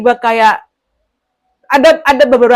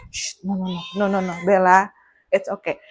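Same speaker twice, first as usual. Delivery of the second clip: soft, hushed shushing; hushing the cat; 4 semitones lower, 5 dB quieter than usual. Real, not acted. Stopping the cat from interrupting, soft and hushed. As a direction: gently shoo the cat away under your breath.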